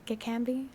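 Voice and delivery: Gekambi lifted into a question; checking pronunciation. Shown as a demonstration. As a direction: say Gekambi as if asking for confirmation. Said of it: "that is right".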